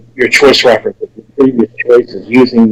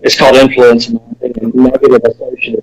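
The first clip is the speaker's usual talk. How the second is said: muffled. Real, not acted. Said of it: "it kinda sounds like you're muffled right now".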